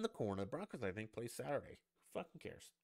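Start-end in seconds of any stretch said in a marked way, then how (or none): 2.1-2.7 whispered aside. Real, not acted. Dismissive aside to viewers.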